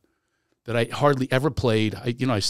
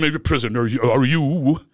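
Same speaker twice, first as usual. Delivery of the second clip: Broadway voice; 3 dB louder than usual. Pretend. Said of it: "I can't not do Broadway voice".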